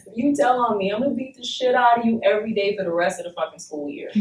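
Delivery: put-on understated ten-year-old's threat, run out quickly at the end; mock-serious playground threat; retold threat. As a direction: re-enact a schoolyard threat without raising the voice. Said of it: "said it just like that".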